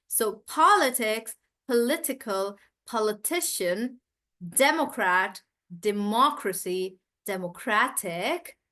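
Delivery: each word said with its stress marked, some slowed; shifting word stress drill. Shown as a demonstration. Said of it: "the stress also changes".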